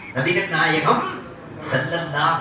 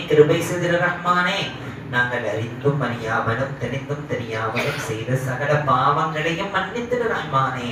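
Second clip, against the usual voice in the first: chant-like, measured dua; supplicating prayer. Real, not acted. Preacher leading dua to the Merciful for forgiveness, reverently pleading.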